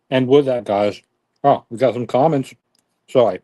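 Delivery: talking while chewing; mouth full. Real, not acted. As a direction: speak through a mouthful of burger. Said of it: "I should not be talking with my mouth full".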